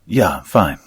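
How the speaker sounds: a touch breathless after a scare; loud, winded reassurance; panting. Acted. Kellick to the partner who caught him, panting. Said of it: "Kellick panted".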